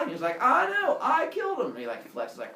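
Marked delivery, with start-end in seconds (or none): 0.4-1.7 loud, high, elated brag; proud boasting. Retold or imitated. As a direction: crow about a victory.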